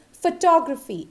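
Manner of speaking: photography stressed on "TOG"; correct pronunciation. Shown as a demonstration. Teacher introducing the last common word, correct pronunciation. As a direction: say photography as fuh-TOG-ruh-fee. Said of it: "It is always photography".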